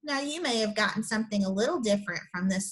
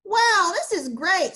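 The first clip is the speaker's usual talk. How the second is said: higher, louder happy exclamation; delighted; 6 semitones higher, 5 dB louder than usual. Acted. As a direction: burst out with joy. Rex delighted at discovery.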